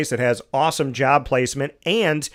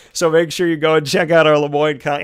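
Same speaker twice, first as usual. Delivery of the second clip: put-on old country voice; 3 semitones higher, 6 dB louder than usual. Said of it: "that old country voice coming out here".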